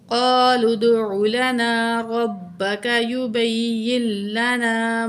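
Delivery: slow, melodic tajweed chanting, each sound stretched; Quran recitation. Shown as a demonstration. Teacher recites verse for her students, slow melodic chant. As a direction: chant the verse slowly and reverently, like a qari.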